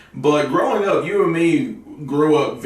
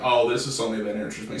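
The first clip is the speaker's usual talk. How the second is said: quick, offhand mock realization; mock casual discovery; 2 semitones lower, 5 dB quieter, faster than usual. Shown as a demonstration. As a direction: toss it off fast and light. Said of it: "wait, sorry. That was still terrible".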